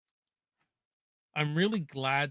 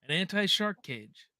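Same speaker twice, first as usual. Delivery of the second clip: Quint impression. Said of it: "Quint from Jaws".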